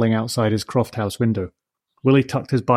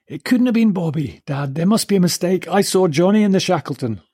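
firmly; 8 semitones higher than usual. Acted. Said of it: "Willie said firmly".

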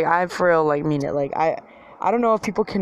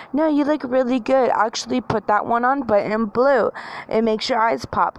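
slightly high-pitched mock flattery; a touch of put-on encouragement; fake compliment; 5 semitones higher than usual. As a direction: flatter like an enabling friend. Friends' fake compliment, acted.

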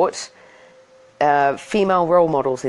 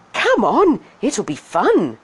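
ladybug voice; 6 semitones higher, 4 dB louder, slower than usual. Acted. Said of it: "the ladybug said".

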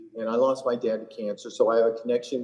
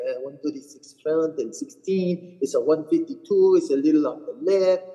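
put-on French-accented caddy reading yardages, raised and louder mid-way; imitating French caddy; 4 semitones higher, 3 dB louder than usual. Imitating the French caddy giving yardages in a French accent. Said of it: "I always imitate him".

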